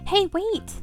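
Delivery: high, urgent call. Acted. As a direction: call after someone walking away. Calling after old woman.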